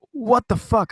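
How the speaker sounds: high-pitched mock British yell; attempted British accent. Crying friend yelling at sister, high attempted British accent. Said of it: "yelling at my sister in her British accent".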